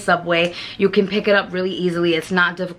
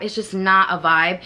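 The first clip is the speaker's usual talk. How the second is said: normal talking voice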